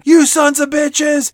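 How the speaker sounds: high, drawn-out mock scream. Host reenacting Wanda June's screen scream, slow mock scream. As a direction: stretch it out like a hammed-up scream. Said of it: "she screams out yet again".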